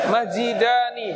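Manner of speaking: masjidani slowed down, with a small laugh; a chuckling, slow masjidani; slow model word. Shown as a demonstration. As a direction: stretch masjidani gently for students. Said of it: "Ingat belakangnya ani".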